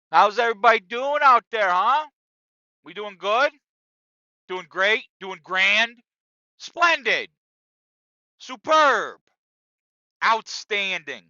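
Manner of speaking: loud, high crowd-warming shout; hype host. Acted. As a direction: pump up the audience like a show host.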